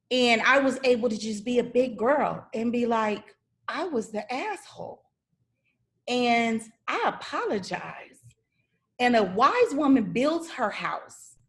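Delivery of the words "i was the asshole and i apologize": a pop star's cry. Retold or imitated. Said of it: "I did the pop star cry".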